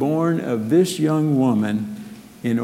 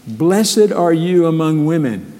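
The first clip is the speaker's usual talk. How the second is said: a joyful exclaiming cry, higher and louder; 5 semitones higher, 5 dB louder than usual. A narrator's reading. Elizabeth crying out a loud blessing to Mary. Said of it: "she exclaimed with a loud cry".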